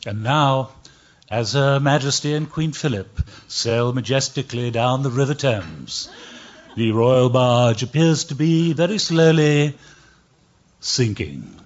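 hushed-reverence BBC commentary, lightly put on; deadpan British royal-pageant commentator, drawing out the final phrases; BBC announcer. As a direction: play a dry BBC announcer. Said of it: "two B B C announcers are commenting".

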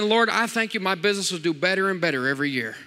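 preacher models a confident business prayer; prayer demo. Shown as a demonstration. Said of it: "Start saying".

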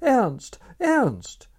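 high, loud pleading call of his name; imploring cry. A narrator's reading. Wife calling her husband through the door, loud and imploring. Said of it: "she implored".

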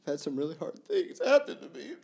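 choked up, sobbing through the words; real crying, voice breaking; ugly crying. Real, not acted. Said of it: "I'm clearly just ugly crying at this point".

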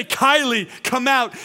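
high, loud summons; forceful shout to raise the dead; commanding voice. Acted. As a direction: call a name out with full authority. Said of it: "commanding voice of the authority".

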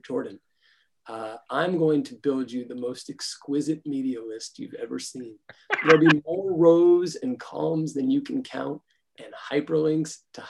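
sultry voice. Pretend. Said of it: "I'm putting on my best most sultry voice".

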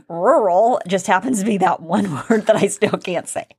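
laughing through the confession. Real, not acted. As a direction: giggle between the words. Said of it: "couldn't say my R's".

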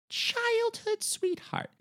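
high, slow sarcastic repeat; mock-incredulous high drawl; mocking disbelief. Real, not acted. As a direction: stretch it out in disbelief. Mocking the age gap.

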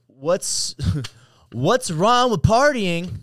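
high, loud read through laughter; laughing, drawn-out question; amused read-out. Real, not acted. Reads question out, breaking into laughter.

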